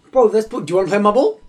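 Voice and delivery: high, loud playground pitch; excited kid. Acted. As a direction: pipe up loudly like an eager mate. Acted kids on the playground.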